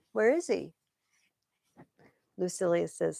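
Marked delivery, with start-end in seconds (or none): 0.1-0.7 whisper. Acted. Antony's short question.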